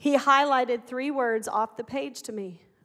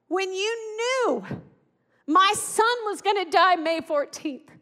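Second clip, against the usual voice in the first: high, slow, raised voice pleading why; angry yelling; 5 semitones higher, 3 dB louder, slower than usual. Retold or imitated. Mother yelling at God about the message, high and anguished. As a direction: rage at God through grief. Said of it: "I was yelling".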